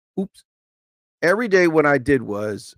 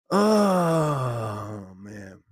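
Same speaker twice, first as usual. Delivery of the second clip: mock cry; 4 semitones lower, 6 dB quieter than usual. Sigh after TikTok rant.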